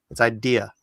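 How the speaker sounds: "idea" said as "I-dea", stress on the first syllable I; "idea" with the stress landing on I; correct stress on idea. Shown as a demonstration. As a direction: start "idea" with a clear stressed I, then "dia". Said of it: "you're putting the emphasis on the wrong syllable".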